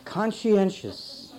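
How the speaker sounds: slow conscientious, every syllable laid out; slow, deliberate word. Shown as a demonstration. Preacher stating the word before defining it, slowly. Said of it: "Here's a conscientious".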